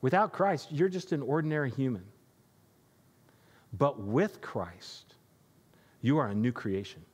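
a mother donkey consoling her foal. Acted. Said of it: "and she says".

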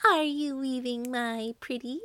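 high-pitched, wheedling witch; high, sing-song witch's question; Baba Yaga. A narrator's reading. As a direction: call it out high and coaxing. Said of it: "asked in a high-pitched voice".

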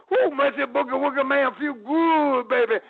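high, loud hyped-up wrestler call; his wrestling persona. Retold or imitated. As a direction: whoop it out like a flashy showman. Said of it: "I go".

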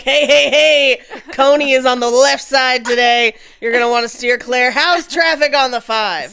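loud, laughing radio DJ hype; morning DJ voice. Pretend. Joking about a warlord traffic report, a loud laughing DJ. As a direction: pump it up like a morning radio host. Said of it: "Just like".

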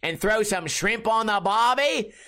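hammed-up Aussie accent; jokey, broad Australian mate talk; funny Australian accent. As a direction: put on a comic Australian accent. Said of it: "just do a funny accent".

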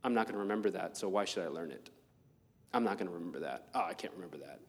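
low, soft, muttered to yourself; a quiet self-defeating mumble; inner dismissive voice. Retold or imitated. Listener privately deciding not to remember, muttered. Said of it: "telling yourself".

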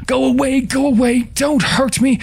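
put-on very high, terrified child's voice; piercingly high, repeated plea; child's scream. A narrator's reading. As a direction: shriek it like a frightened child, without full volume. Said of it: "it screamed".

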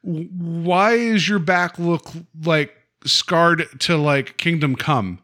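high, slow worried parent voice; concerned parent. Retold or imitated. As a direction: ask gently like a puzzled mom. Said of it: "There was never once like".

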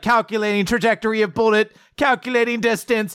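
hammed-up crime-lab analyst; CSI robot voice. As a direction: play a detective robot, climbing in pitch. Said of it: "becomes C S I for a moment".

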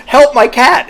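high, loud hammed-up plea; imitating a crazed plea; mock desperate cry. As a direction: wail it like a deranged owner. Coworker insisting at vet.

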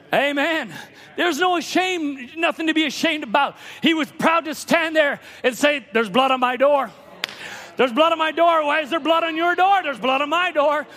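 proud, emphatic preacher pitch; fervent preaching. Real, not acted. Preacher telling of the man proud of his door, fervent preaching. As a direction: declare it unashamed from the pulpit.

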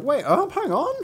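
high calling out after someone. Retold or imitated. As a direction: call after him, high. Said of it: "So the servant's like".

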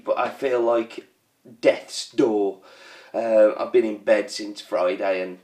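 low, slow and weary after an operation; feeling unwell. Real, not acted. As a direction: drag the words out, feeling rotten. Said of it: "I'm feeling fairly fragile and sorry for myself".

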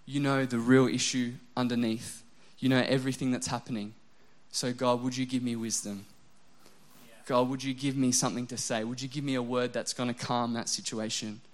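imagined morning prayer to God, hushed and humble; quiet prayer. Pretend. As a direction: pray it gently before work. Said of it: "I stopped and I said".

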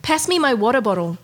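put-on light Australian accent, casual request. Australian accent to impress her cohost. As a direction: ask for the bottle like an Aussie. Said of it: "that was good".

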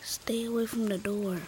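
urgent hushed warning; whispering. Acted. Boy warns near the door.

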